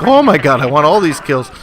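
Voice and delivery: loud, high burst of excitement; excited exclamation, pitch jumping up; retold freak-out. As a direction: act out getting carried away. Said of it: "I freak out".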